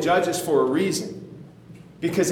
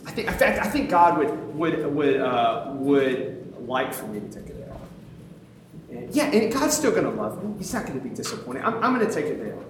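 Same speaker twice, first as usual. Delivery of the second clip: self-justifying. Retold or imitated. Persuading himself God would approve, mock self-justifying. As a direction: search for words, then convince yourself. Acting out excuse to skip reading.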